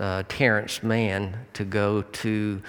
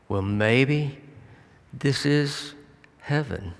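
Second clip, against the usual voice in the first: halting realization with long pauses; musing, lifting then settling on the last word; retold dawning wonder; 3 semitones higher, slower than usual. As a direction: let it dawn phrase by phrase. Ray realizes home may be heaven.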